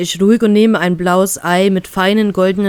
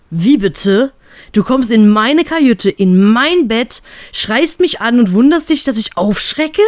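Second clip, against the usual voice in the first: ironic; 3 semitones higher, slower than usual. Acted. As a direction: throw her accusation back at her. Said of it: "frage ich ironisch nach". (ironisch und etwas lauter nachgefragt)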